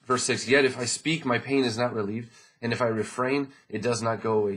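loud, ringing Bible reading; scripture reading. Acted. Pastor reading Job aloud to the congregation, ringing. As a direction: read Job's lament out loud to the church.

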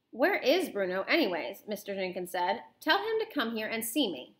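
animated read-aloud with character dialogue; lively storybook reading; story narration. A narrator's reading. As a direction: read a children's novel aloud expressively.

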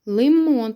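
лимон with a lengthened МОН; stress on О. Shown as a demonstration. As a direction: lean on the last syllable of лимон. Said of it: "падає на о".

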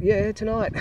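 mock-eager pitch-up invite; excited mate.

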